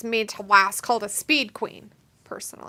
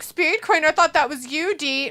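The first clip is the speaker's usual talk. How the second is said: imitating Robbie; 7 semitones higher, 8 dB louder than usual. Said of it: "Robbie's like".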